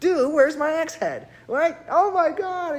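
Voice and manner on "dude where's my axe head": higher, panicky mock "dude"; lightly hammed-up panic; mock distressed. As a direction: imitate a frantic guy who lost his car. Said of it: "he's distressed".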